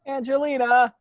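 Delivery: high, loud call into the night. Acted. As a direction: call her name across the yard. Calling out into the dark.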